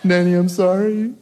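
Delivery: put-on little girl voice, laughing; daughter's excuse. Daughter sweetly explaining the giant cat to her dad, laughing.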